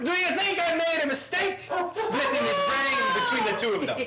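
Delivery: strained high Eastern European accent attempt; mock European accent. Shown as a demonstration. Player acting out a clue for his partner, in a bad European accent. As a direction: reach for a Holocaust survivor accent. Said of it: "You can do the accent".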